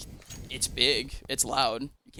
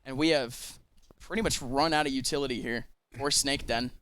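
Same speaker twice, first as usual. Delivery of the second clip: calm play-by-play; 2 semitones lower, 4 dB quieter than usual. Acted. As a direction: call the round like a caster. Play-by-play commentary.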